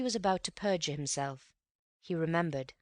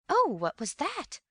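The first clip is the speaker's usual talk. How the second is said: higher, louder, slow frightened cry; startled housekeeper at a gunshot; scared old housekeeper, high and drawn out; 11 semitones higher, 5 dB louder, slower than usual. Retold or imitated. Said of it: "frightened like".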